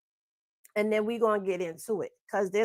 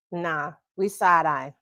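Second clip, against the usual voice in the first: mouth full; 5 semitones lower than usual. Real, not acted. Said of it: "I'm eating my damn, uh, sunflower seeds".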